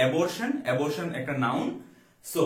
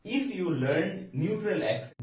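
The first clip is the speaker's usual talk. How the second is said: slow dictation; 3 semitones higher, much slower than usual. Shown as a demonstration. Teacher reads example sentence slowly.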